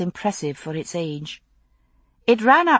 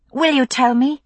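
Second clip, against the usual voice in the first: blurted; 7 semitones higher, 4 dB louder than usual. Acted. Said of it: "she blurted".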